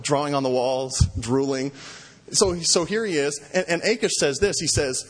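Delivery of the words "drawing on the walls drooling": lightly voiced toddler babble; a hint of a one-year-old. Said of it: "acting like my one-year-old".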